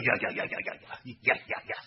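whispered, out of breath; breathy whisper. A narrator's reading. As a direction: gasp it out, drained. Tired dragon answers.

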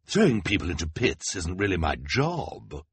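mildly nervous excuse. Acted. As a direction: wriggle out of it before a crowd. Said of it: "said nervously to the crowd".

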